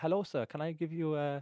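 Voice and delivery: softly mimicked Asian accent; generically bad Asian accent. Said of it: "you're doing a generically bad racist accent".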